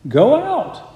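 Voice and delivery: God calling Elijah out of the cave; gentle word. Retold or imitated. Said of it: "his gentle word comes to him".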